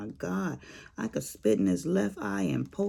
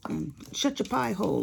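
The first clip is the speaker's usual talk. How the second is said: grumpy husband; 5 semitones higher than usual. Retold or imitated. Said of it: "He's like".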